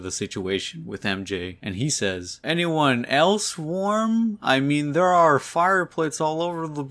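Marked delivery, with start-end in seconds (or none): 2.4-6.8 high, squirming mock nervousness; super awkward. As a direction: act like you're weaseling out, trailing into babble. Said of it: "starts feeling super awkward".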